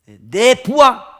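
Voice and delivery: high, very loud, drawn out; forceful ownership cry; emphatic possessive. Acted. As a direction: proclaim it slowly as the general's claim. General claims his own people.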